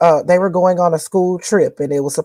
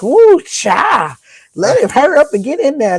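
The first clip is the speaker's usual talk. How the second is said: retold flustered exclamation; 7 semitones higher than usual. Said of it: "I was like".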